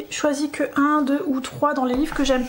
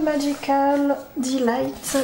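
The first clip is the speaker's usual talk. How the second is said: "Magical Delight" read slowly in self-conscious French-accented English; much slower than usual. Real, not acted. Vlogger reading an English book title to viewers, slow French-accented English. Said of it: "désolée pour mon anglais qui est pas ouf".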